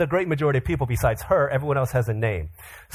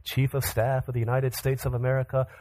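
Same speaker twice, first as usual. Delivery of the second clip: measured, mildly official recitation; lightly voiced presidential speech; formal address. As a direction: recite it like an official statement of duties. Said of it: "in his formal address says".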